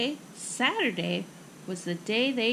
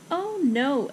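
higher, slightly mild cry of dismay; 3 semitones higher, 4 dB louder than usual. Acted. Girl learns story time is canceled, dismayed cry. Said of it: "Ava cried".

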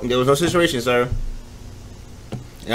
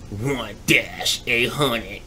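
slow, spelled-out reading; 3 dB quieter, much slower than usual. Acted. Reading the number slowly.

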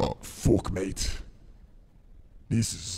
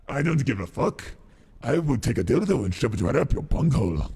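put-on Irish venom accent. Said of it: "Irish venom".

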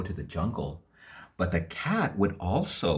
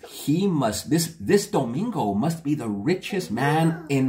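excited king; 3 semitones higher than usual. Acted. King delighted.

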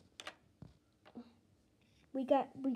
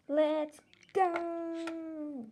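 eager call; 5 semitones higher, 4 dB louder than usual. Pretend. Setting off for school.

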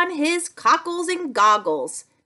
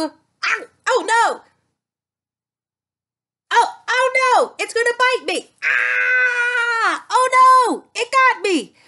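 higher, hammed-up cries of fear; mock panic; 7 semitones higher, 3 dB louder than usual. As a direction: play being bitten, squealing. Pretending alligator bites her.

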